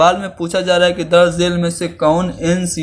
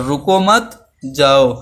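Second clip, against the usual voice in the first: slow "रुको मत", pause, then "जाओ"; comma after मत; 2 semitones lower, slower than usual. Shown as a demonstration. Teacher contrasting two meanings of one sentence, pause after "मत". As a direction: join "रुको मत", set "जाओ" apart. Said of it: "meaning में changes हुए कि नहीं".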